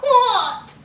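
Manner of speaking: high, exaggerated mock-swooning HOT; imitating Lacey. Repeating for viewers how she said it, mock swooning. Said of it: "Ain't that how she said it".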